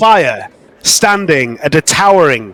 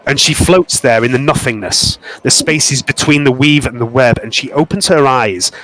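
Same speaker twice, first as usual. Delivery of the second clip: game master narration; 3 semitones lower than usual. A narrator's reading. Game master describing a goddess vision, hushed narration.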